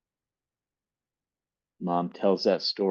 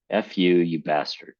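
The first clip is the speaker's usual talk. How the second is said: a touch of spite, mildly raised; spat out; 3 dB louder than usual. Acted. Mom cursing at Dad, mildly spat. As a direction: spit the insult, understated. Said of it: "She spat".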